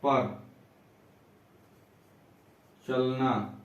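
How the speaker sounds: slow, low, soft word-by-word dictation; quiet, drawn-out teacher dictating for note-takers. Shown as a demonstration. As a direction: dictate it piece by piece with long pauses. Dictates the example.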